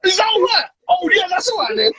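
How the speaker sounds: high, innocent mock question. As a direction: play the innocent, high and sweet. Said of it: "You look at me and go".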